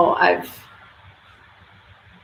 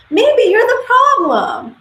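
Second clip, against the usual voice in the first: high, loud and slow, every word landed; slow, loud, high-pitched jab at the viewer; pointed punchline; 5 dB louder, slower than usual. Real, not acted. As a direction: call them out with a slow, loud zinger. Punchline aimed at women.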